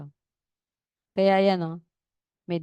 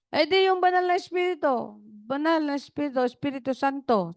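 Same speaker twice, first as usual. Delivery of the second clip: grandmother's voice; 5 semitones higher than usual. Retold or imitated. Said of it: "Sabi niya".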